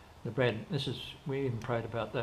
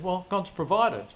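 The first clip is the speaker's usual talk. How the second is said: higher, louder and slow; triumphant punchline; 7 semitones higher, 6 dB louder than usual. Retold or imitated. Friend telling him God already provided, slow and triumphant. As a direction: land it like a proud revelation.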